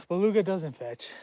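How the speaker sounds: normal talking voice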